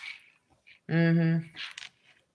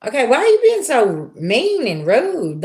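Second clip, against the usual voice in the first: indignant question; 6 semitones higher, 3 dB louder than usual. Retold or imitated. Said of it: "And I'm like".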